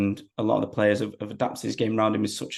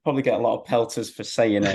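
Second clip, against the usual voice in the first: laughing. Real, not acted. Laughing off a cheeky question.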